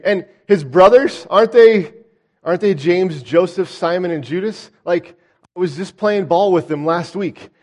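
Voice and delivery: incredulous neighbour. Retold or imitated. Voicing indignant hometown crowd.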